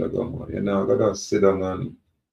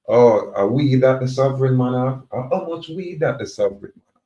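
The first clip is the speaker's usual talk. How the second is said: higher-pitched mimicked question from an onlooker; nosy onlooker; 4 semitones higher, 4 dB louder than usual. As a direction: act out a nosy bystander, pitched up. Voices onlookers eyeing his weed.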